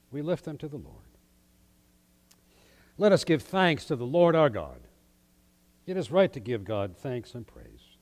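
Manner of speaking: solemn liturgical prayer voice. Acted.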